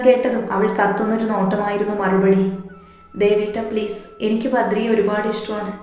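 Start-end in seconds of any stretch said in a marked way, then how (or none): 3.2-5.7 pleading. Acted. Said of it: "വീണ് കരഞ്ഞു".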